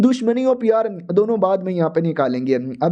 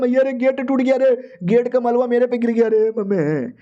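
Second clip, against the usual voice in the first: whiny guard, pitched higher, crying for mom; hammed-up wail; 4 semitones higher than usual. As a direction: wail like a cowardly guard buried in rubble. Guards wail as gate crashes.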